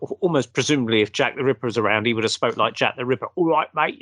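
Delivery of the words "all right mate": a quick Cockney "All right, mate"; lightly done East End London greeting; hint of a Cockney accent. Shown as a demonstration. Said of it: "you know, like that".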